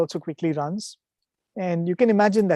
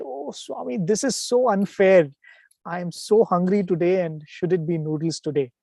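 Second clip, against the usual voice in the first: retold angry complaint. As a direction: complain mildly to Swami, as if it's unfair. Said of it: "you so angry".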